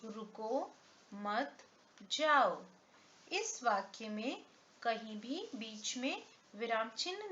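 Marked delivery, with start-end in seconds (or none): 0.0-2.6 each word set apart, रुको, मत, जाओ, with long even gaps; example read word by word. Shown as a demonstration. Teacher reading an unpunctuated example to children, word by word. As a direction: read रुको, मत and जाओ as separate words, no grouping. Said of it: "कुछ उदाहरणों द्वारा समझाती".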